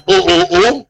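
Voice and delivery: petit «oh, oh, oh» condescendant, à peine joué; imitation moqueuse. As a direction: singer la serveuse qui le calme. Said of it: "rien que la façon qu'elle a osé me dire". (imitation légère d'un «calme-toi» hautain)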